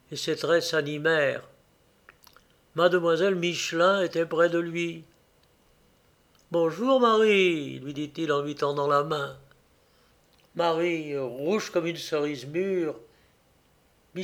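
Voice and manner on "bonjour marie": bonjour lent et attendri; salut adouci. A narrator's reading. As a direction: saluer tendrement, en étirant les mots. Il salue doucement la jeune fille. (salutation douce et tendre)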